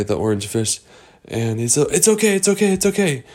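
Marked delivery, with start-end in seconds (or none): 1.9-3.2 comforting. Acted. Comforting the crying fish.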